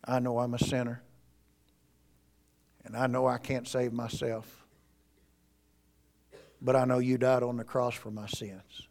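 soft, hushed prayer; sinner's prayer. Shown as a demonstration. Pastor modeling the sinner's prayer for a seeker, soft and hushed. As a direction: pray it gently and humbly. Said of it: "You go to Jesus and you say".

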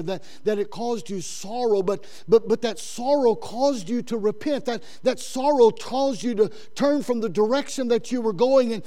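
normal talking voice

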